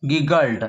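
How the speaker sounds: "गिगल्ड" said as a careful standalone word; "गिगल्ड" pronounced as gig-uld, falling at the end; pronunciation demo. Shown as a demonstration. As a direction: model "गिगल्ड" for pupils to read. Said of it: "इसको पढ़िएगा गिगल्ड".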